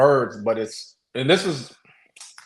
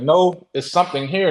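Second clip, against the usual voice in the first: firm, raised-pitch insistence; retold adamant protest, pitched up; 4 semitones higher than usual. Speaker insisting to doubting friends, adamant. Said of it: "I'm adamant".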